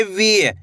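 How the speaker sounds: "वी" with the vowel stretched out; drawn-out long ee. Shown as a demonstration. Teacher shows learners the matra, stretched "वी". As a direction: hold the ई in "वी". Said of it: "खींच खींच के उच्चारण किया जाता है".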